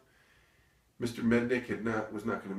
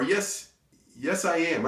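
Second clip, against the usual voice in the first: high, raised announcement; piping up from hiding; 7 semitones higher, 6 dB louder, slower than usual. Retold or imitated. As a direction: pop up with the answer. Alternative version of startling reply.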